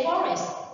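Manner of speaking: "forest" stressed on its first syllable; FORest, as a teacher models it. Shown as a demonstration. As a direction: lean on FOR in "forest". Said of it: "the stress is on the word for".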